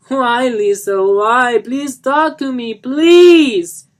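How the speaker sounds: high, loud anguished begging; desperate pleading. Acted. Johnny begging his fiancée to talk, anguished loud plea. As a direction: beg her to answer.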